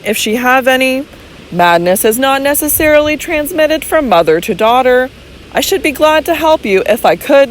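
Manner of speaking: calm medical man reasoning it through; measured physician. Acted. Physician reasoning calmly with Robert, lightly voiced doctor.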